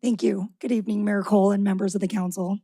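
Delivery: hoarse, scratchy speaking voice; a worn, raspy throat pushing through. Real, not acted. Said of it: "I have a little bit of a raspy voice tonight".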